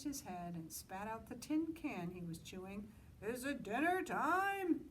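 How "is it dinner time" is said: a high, slow goat's call; Mister Goat calls out, drawn out and high. Acted. Mister Goat calling to Moose, high and slow. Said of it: "he called".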